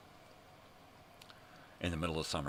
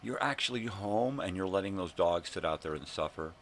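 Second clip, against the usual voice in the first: raised, higher, mock-screamed reproach; retold scream; 5 semitones higher, 7 dB louder than usual. Neighbor confronts the lady over her dogs, re-enacted scream. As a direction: re-enact hollering at a neighbor, loud and high. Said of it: "I scream at the lady".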